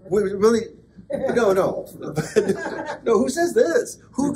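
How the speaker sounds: cracking up mid-sentence; laughing. Real, not acted.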